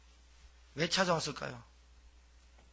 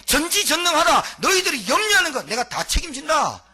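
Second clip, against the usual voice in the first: booming divine proclamation, raised and loud; voice of God; 6 semitones higher, 5 dB louder than usual. Acted. Preacher speaking as God to his people, loud and commanding.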